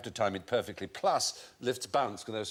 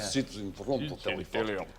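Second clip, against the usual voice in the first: mock Russian accent; 2 semitones lower than usual. Panellist trying out the joke name, in a Russian accent. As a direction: put on a comic Russian accent. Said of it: "Said it in a Russian accent".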